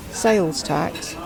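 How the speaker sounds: ordinary delivery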